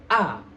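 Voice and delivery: "A" opened wide; A terbuka lebar. Shown as a demonstration. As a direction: give a clear, open "A". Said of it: "dibuka dengan lebar". ("A" dibuka dengan lebar)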